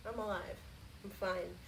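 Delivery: barely voiced whisper. Real, not acted. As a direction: breathe the word out. Hushed after spider scare.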